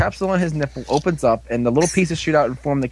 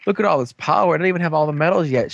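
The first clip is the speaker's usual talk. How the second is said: excited; 3 semitones higher, faster than usual. Retold or imitated. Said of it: "He's all excited".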